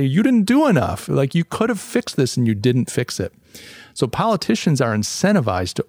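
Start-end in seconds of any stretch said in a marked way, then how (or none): 0.0-3.3 mock outrage, first words pitched much higher; angry accusing crowd. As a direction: blame him, rising sharply on "You didn't do enough". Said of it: "They're gonna say".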